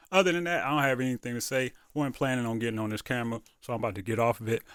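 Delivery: talking while chewing gum. Real, not acted. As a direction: gum in the mouth while speaking. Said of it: "I got gum in my mouth".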